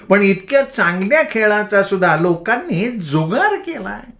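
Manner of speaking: high, slow, wailing lecture; lamenting madwoman. A narrator's reading. Bhagi lamenting to the boys, high and slow. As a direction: mourn the ruined games slowly and high. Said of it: "ती हळहळ करत म्हणाली".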